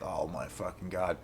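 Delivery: hushed, deflated mutter; stunned disbelief. Retold or imitated. Standing in the empty lobby, a hushed stunned mutter. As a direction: barely breathe it out, gutted. Ticket seller confirms next week.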